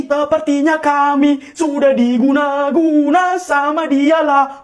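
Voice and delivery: half-chanted, drawn-out phrases; singsong complaint; infected odd delivery. Acted. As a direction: stretch the words like everyone caught the same tic. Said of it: "Kalian semua kok jadi kayak gini?".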